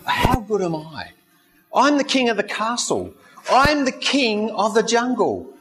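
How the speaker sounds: strut through the bragging like a vain king of beasts; a hint of a proud lion showing off; boastful lion. Lion boasts about himself.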